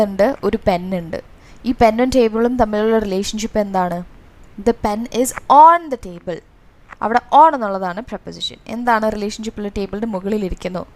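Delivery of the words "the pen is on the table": slow example with a big lift on "on"; stress on "on". Shown as a demonstration. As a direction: hit the word "on" hard in a slow example sentence. Teacher highlighting the example preposition.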